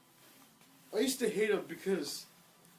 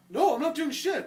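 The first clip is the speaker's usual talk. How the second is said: mock protest; 8 semitones higher, 7 dB louder than usual. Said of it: "denying to the teacher".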